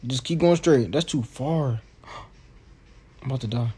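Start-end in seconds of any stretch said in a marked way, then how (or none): 2.0-3.7 gasping, fast, breathy dying line; overacted death scene. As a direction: gasp it out like your last breath. Dramatic in-game dying.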